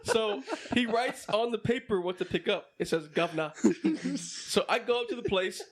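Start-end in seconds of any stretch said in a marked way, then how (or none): 3.1-3.5 mock British accent. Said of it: "say it in a British accent".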